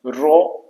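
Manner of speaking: raw said alone with an open vowel; raw pronunciation demo. Shown as a demonstration. Teacher showing learners how raw is pronounced, pronunciation demo. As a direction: model the word raw by itself. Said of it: "इसका pronunciation कुछ इस तरह से होता है".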